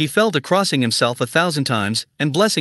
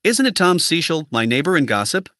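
amazed exclamation. Acted. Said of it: "exclaimed aloud in a voice of amazement".

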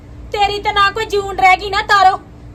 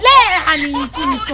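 laughing through the words; 3 semitones lower, 5 dB louder than usual. Real, not acted. Two old women laughing at a misheard request, laughing. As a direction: break up laughing at the mix-up.

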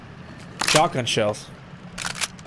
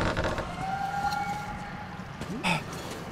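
frightened gasp; 10 dB quieter than usual. Real, not acted. Frightened by noises in the game.

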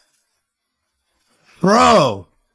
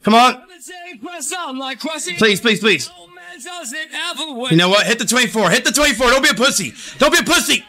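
frat bro; 10 semitones higher, faster than usual. Real, not acted. Begging the machine for hits.

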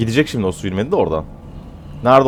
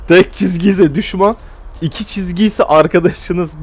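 slow, higher, deliberate rule; slow explanation; 6 semitones higher than usual. Shown as a demonstration. Teaching viewers to read the radar, slow and deliberate. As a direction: spell out the rule slowly like a teacher. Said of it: "bu kadar zor değil bakın".

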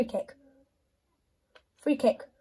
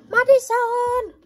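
much higher, louder drawn-out shout; frantic yell; 13 semitones higher, 9 dB louder, slower than usual. Real, not acted. Gamer yelling at his player Madison, slow and loud. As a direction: yell the name in desperation.

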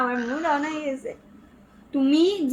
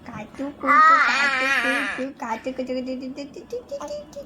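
tickling coo. Real, not acted. Mother tickling baby.

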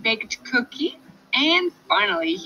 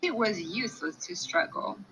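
usual speaking voice

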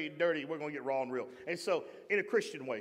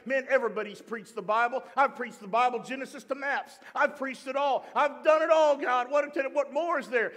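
raised, mounting exasperation; exasperated complaint; 4 semitones higher, 4 dB louder than usual. Retold or imitated. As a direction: act out venting to God, building to a louder peak. Acts out frustrated complaint to God.

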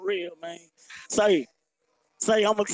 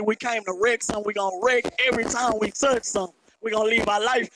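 hoarse voice. Real, not acted. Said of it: "I sound like a whole old man right now 'cause I left my voice up there".

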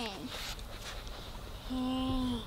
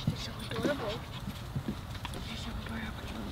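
soft cooing; 6 semitones lower, 11 dB quieter, much faster than usual. Real, not acted. Cooing quietly at puppy.

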